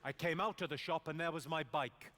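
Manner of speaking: puzzled Welsh question; mock Welsh bewilderment; confused Welsh accent. Shown as a demonstration. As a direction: sound baffled in a Welsh accent. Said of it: "you've just got to sound confused".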